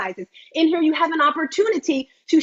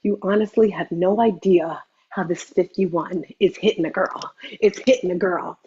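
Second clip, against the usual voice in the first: emotional; 7 semitones lower than usual. Real, not acted. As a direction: let the feeling weigh the words down. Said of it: "I get a little emotional".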